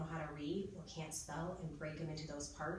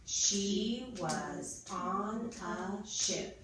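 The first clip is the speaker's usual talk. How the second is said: extremely slow, louder, every word separate; pounded-out sentence; 3 semitones higher, 5 dB louder, much slower than usual. Shown as a demonstration. Teacher has pupils count the words, slow and pounded out. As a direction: pound out each word with a gap. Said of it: "go through our sentence again".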